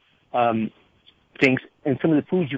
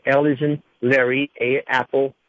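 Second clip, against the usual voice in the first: slow spelling; slower than usual. Real, not acted. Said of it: "I'll spell it out slowly".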